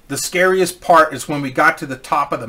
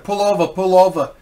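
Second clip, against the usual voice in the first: put-on a light, half-hearted Boston accent; 4 semitones higher than usual. Mechanic urging the driver to pull over, in a light Boston accent. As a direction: try a rough Boston accent on the mechanic's words. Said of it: "I don't have a good Boston accent".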